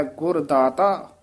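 ਗੁਰ ਦਾਤਾ said slowly, then a stop; slow phrase ending in a pause; pause after data. Shown as a demonstration. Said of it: "ਇਸੇ ਤਰ੍ਹਾਂ ਵਿਸਰਾਮ ਲਾਉਣਾ ਹੈ".

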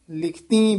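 ਲਿਖਤੀ with a nasalised final ee; nasal ending. Shown as a demonstration. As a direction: end ਲਿਖਤੀ on a nasal likh-teen sound. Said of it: "ਬਿੰਦੀ ਨਾਲ ਉਚਾਰਨ".

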